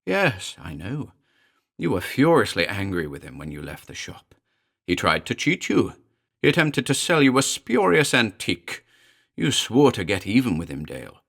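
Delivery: lightly voiced shrill familiar; shrill demon. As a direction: needle him like a gleeful little devil. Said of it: "The little Baroque shrilled".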